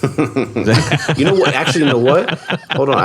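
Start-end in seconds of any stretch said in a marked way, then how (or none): 1.2-3.0 excited. Real, not acted. Suddenly recalls something.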